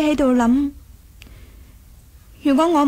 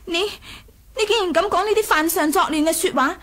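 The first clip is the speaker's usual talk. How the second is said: higher and fast, indignant accusation; shocked outrage; 4 semitones higher than usual. Acted. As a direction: fire it back at him in disbelief. Princess shocked by rebel talk.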